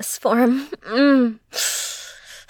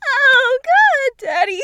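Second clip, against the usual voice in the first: much higher and louder cry; high ecstatic cry; 12 semitones higher, 4 dB louder, slower than usual. Acted. Crying out to her partner in roleplay, high loud ecstatic cry.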